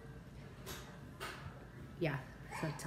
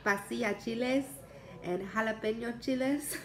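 put-on Mexican girl accent; 3 semitones higher than usual. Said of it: "the way she says".

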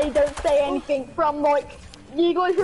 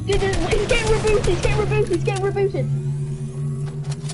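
excited urgency; 5 semitones higher than usual. Real, not acted. Teammate being rebooted.

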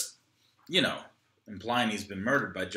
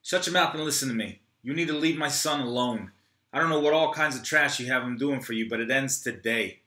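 controlled anger; 2 semitones higher, 3 dB louder than usual. Acted. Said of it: "Troy is upset".

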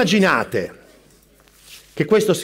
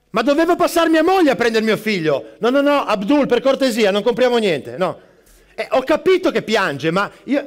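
frantic barista; 2 semitones higher than usual. Acted. Barista on phone with teacher.

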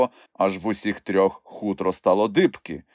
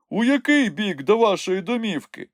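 higher-pitched inquiring character voice; curious Nyukhmumryk; 12 semitones higher than usual. A narrator's reading. Nyukhmumryk asks the way home, curious. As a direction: ask with interest, pitched up. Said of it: "поцікавився Нюхмумрик".

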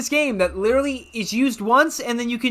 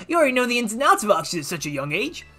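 put-on chuckling Southern old-timer; hammed-up Southern, opens with a laugh; amused fake Southern mentor; horrible Southern accent; faster than usual. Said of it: "I did a horrible Southern accent".

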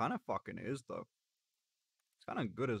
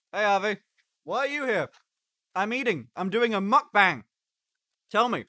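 advice show host; 4 semitones higher, 5 dB louder than usual. Pretend. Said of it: "Life advice with Finn".

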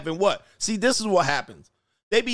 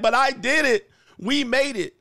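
higher-pitched imitation of a bragging woman; put-on higher voice, mock proud; mock boasting; 6 semitones higher than usual. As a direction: mimic a self-congratulating winner, pitched up. Mimics women boasting they made it.

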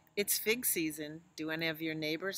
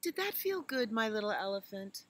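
mother elephant voice; 5 semitones higher, 4 dB louder than usual. Acted. Mother asks child.

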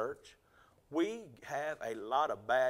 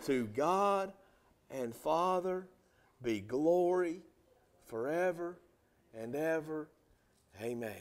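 slow unison reading. Shown as a demonstration. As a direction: read it slowly together with the church. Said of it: "Will you read that verse with me?".

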